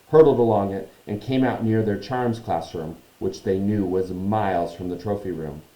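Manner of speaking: measured storytelling narration; story narration. A narrator's reading. Reads the story aloud.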